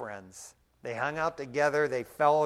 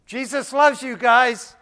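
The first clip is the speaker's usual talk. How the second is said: louder, slow and deliberate; emphatic blessing; 7 semitones higher, 10 dB louder than usual. Retold or imitated. Preacher's parting words to the men, slow and emphatic. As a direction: plant each word firmly.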